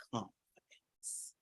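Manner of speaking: very soft, low whisper; hushed. Shown as a demonstration. Coach announcing point number four, whispered. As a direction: drop suddenly to a slow whisper.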